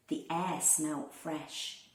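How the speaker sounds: plain reading voice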